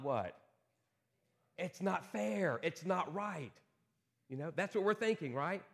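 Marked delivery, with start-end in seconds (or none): 1.6-3.6 indignant complaint. Pretend. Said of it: "you're probably thinking these words".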